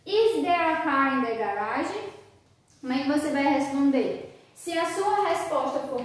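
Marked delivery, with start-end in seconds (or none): 0.0-1.9 "Is there a car in the garage?" asked with a final rise; question intonation. Acted. Someone asks the student "Is there a car in the garage?", question intonation. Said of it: "alguém perguntou for you".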